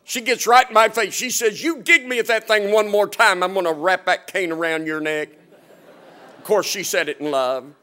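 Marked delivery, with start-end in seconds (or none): 1.6-5.3 mother voice. Retold or imitated. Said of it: "She gets that mother voice".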